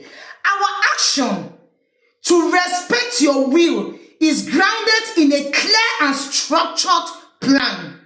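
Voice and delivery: quoting Chiroma's speech slowly, word by word; stately, drawn-out official read; mock solemn politician's address; slow formal statement. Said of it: "He say".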